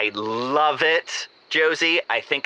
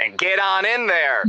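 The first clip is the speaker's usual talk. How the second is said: suggestive; 10 semitones higher than usual. Acted. Suggestive echo of host.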